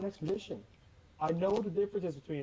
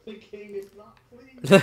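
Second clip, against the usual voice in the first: slow, much louder, laughing through a higher voice; mock royal, laughing; 5 semitones higher, 11 dB louder, slower than usual. Friend teasing the player as king, laughing. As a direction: announce it like a royal herald, cracking up.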